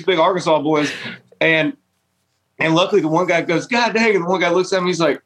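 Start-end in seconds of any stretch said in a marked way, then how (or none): 3.7-4.1 mock startled drawl. Stranger reacting to Tim diving in.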